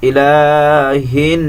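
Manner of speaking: ইলাহিন slow, la drawn one count; ইলাহিন with the nun hummed; ইলাহিন, short stretch then ghunna; one-alif stretch. Shown as a demonstration. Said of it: "এখানে এক আলিফ টান আছে".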